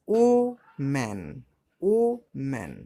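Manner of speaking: "ও" held, pause, then "ম্যান"; split into syllables. Shown as a demonstration. Teacher showing the tongue moves twice, "ও ... ম্যান" split. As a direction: break "ও ম্যান" into two strong separate beats. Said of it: "উচ্চারণ করতে গেলে দুবার লাগছে".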